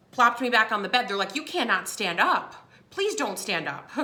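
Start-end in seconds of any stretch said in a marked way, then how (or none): 1.3-3.9 slow, deliberate imitation of pleading nurses; firm pleading. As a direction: spell it out slowly for a stubborn patient. Nurses pleading slowly, retold.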